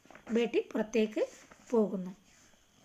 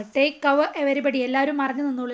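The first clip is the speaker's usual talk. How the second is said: calling out warning; 2 semitones higher, 5 dB louder than usual. Acted. Farmer warns of time bomb.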